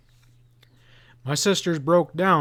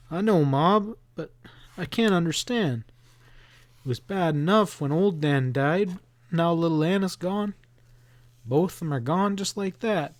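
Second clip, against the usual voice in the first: put-on higher boy's voice, pleading and upset; grieving boy; 5 semitones higher than usual. Boy protests to his mother about his dead dogs, higher and upset. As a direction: lift into young Billy, hurt and confused.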